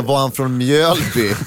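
Mjölby drawn out in a slow mock question; slow, teasing take on "Mjölby". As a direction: ask "Var han från Mjölby?" very slowly, dragging Mjölby. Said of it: "Då kan man inte komma och säga".

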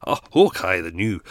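hammy stock Scottish accent; stereotypical Scottish. Shown as a demonstration. Podcaster mocking his own failed attempt, stereotypical Scottish. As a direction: do a clichéd Scottish catchphrase voice. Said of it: "that's stereotypical Scottish".

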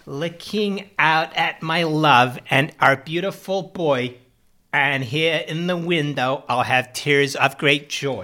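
slow, sugary greeting-card verse; sentimental poem reading. Acted. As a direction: read it like a Hallmark card.

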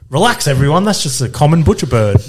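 lightly lampoon a smug know-it-all; mocking Nikita. Friend imitating Nikita correcting party guests, mildly mocking know-it-all. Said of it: "She was like".

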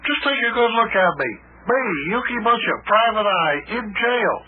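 high-pitched lament of self-pity; woeful wailing. Acted. Lamenting being jailed, wailing.

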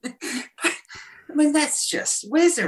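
high, slow, laughing through the words; laughing answer. Real, not acted. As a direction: joke it off while cracking up. Joking answer amid laughter.

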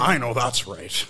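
white guy voice. Shown as a demonstration. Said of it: "I wanted to say it like a white guy".

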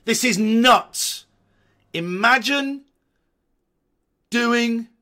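high, very loud, drawn-out disbelief; amazed shouting. Real, not acted. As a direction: holler in astonishment. Amazed at his old stunt.

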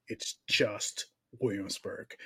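slow, low, patient correction; a touch of the wife's patient voice; imitating wife. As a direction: calmly set him straight like his wife. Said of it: "Like, it's, baby".

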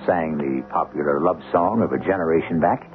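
measured, musing storyteller voice; dramatic narration. A narrator's reading.

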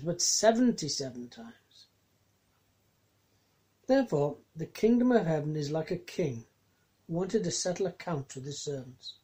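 measured Bible reading; lightly dramatized Gospel reading; scripture reading. Acted. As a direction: read the passage with care. Reads scripture passage aloud.

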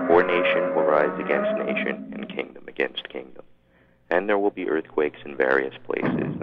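measured Bible reading; scripture recitation. Acted. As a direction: recite scripture in even, solemn phrases. Recites Bible passage aloud.

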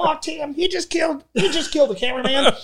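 high mock dismay, half laughing; retold shocked cry. Retelling the video, he voices high laughing dismay to a colleague. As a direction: wail it in mock horror. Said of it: "And I go".

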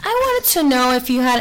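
mock-formal voice for a work call; professional phone voice. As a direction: put on a polite, professional phone voice. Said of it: "kind of also change your voice".

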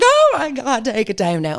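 high, dramatic panicked plea; mock panicked demand. Someone demanding she take a post down, mock panic. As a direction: imitate someone frantically begging. Acted quote of demanding person.

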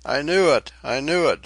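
narrator's restrained shriek of alarm; mild narrated scream. A narrator's reading. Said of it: "screamed Tefara".

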